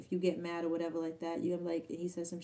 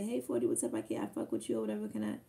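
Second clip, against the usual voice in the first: imitating a fan; 8 semitones lower, faster than usual. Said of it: "as soon as you say".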